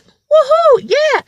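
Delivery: high, loud whooping imitation; loud and flamboyant. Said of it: "loud and, and f-, flamboyant".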